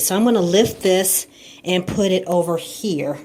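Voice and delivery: slightly winded talking; breathing hard after lifting. Real, not acted. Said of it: "I'm a little out of breath just because I had to move the toilet".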